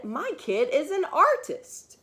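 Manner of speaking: high, bright-eyed proud mom; a mother beaming over her little artist; proud amazed mother. Acted. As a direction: boast like a thrilled parent.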